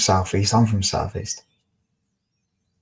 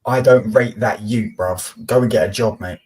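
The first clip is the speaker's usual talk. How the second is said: 1 mocking chat quote; slower than usual. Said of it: "The fact that you just said".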